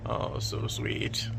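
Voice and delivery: breathy slow whisper on so sweet; whispered coo. Real, not acted. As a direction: whisper it to the cat, slowly. Cooing at the cat.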